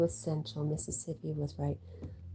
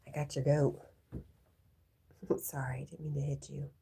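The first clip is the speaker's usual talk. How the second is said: laughing whisper. Real, not acted. Apologising after bumping dog.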